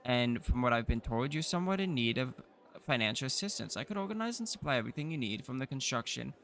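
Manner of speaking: lightly voiced smooth trader; merchant voice. Offering a loan to the baron, a lightly voiced sly merchant. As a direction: pitch the deal like a sly merchant.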